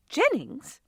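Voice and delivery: can't believe her ears; amazed. A narrator's reading. Friend hears the brother is back, amazed. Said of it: "Marianne said in amazement".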